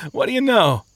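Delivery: high lazy chuckle, then mock surprise; amused. Sleepy man learns his mates are chained too, amused.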